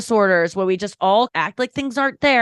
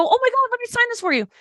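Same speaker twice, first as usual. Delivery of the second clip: gushing and pitched up; high sweet voice; 13 semitones higher, faster than usual. Retold or imitated. Comedian retelling greeting the panting fan, high and sweet. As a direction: sweetly coo at him.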